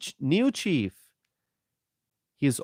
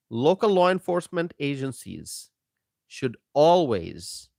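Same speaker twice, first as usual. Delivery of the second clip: whispered emphasis on "local law enforcement agencies". Real, not acted. Host whispers to his stream audience for emphasis. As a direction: drop to a pointed whisper to drive it home. Repeats line, second time whispered.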